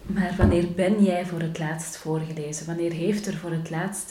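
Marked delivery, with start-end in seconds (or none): 0.4-2.6 BEN pressed to correct the question; stress on BEN. Shown as a demonstration. Host correcting the question for listeners, stress on BEN. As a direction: put the weight on BEN. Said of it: "Niet wanneer heb jij".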